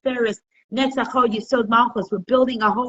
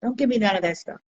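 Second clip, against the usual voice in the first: higher, lightly voiced nosy witness; 6 semitones higher than usual. Witness teasing bride and groom, higher and playful. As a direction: catch them out in a sing-song. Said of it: "It's like".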